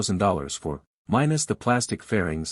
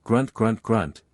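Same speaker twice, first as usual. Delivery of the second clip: engine grunts; slower than usual. Retold or imitated. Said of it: "a power band that's like".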